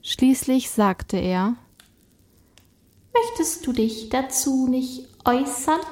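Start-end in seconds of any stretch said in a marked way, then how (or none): 3.1-5.8 spirit voice. Acted. Spirit speaks to Cornelius.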